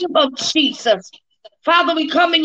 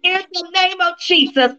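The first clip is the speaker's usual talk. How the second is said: laying a curse. Real, not acted. Casting out spirits.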